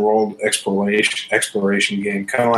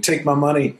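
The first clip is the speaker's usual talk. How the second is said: mock scream; 6 semitones higher than usual. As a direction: pretend to scream it without real volume. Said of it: "like, screaming".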